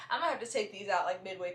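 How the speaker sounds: laughing through the words; amused at own slip. Real, not acted. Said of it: "here I go fumbling".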